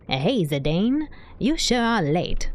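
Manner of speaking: lightly voiced character, drawn out slowly; Cid voice. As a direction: try out a slow game-character line. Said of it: "A Cid voice, maybe?".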